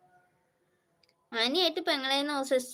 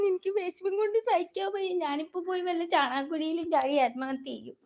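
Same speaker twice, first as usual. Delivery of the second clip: mock despair; 4 semitones higher than usual. Mock despair over few likes.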